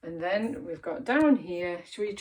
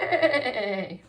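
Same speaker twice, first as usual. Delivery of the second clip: higher, louder wobbling neigh; horse neigh; 4 semitones higher, 6 dB louder than usual. Shown as a demonstration. Teacher leading children in animal sounds, horse neigh. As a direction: neigh like a horse, falling in pitch. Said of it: "say this with loads of expression".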